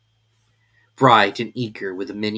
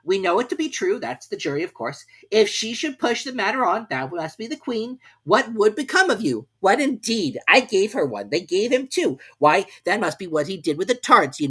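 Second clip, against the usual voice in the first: high, loud fussy king; a pompous king reasoning it out aloud; the King muttering; 10 semitones higher, 5 dB louder than usual. A narrator's reading. The King reads the verses at the trial, high and loud. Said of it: "muttering over the verses to himself".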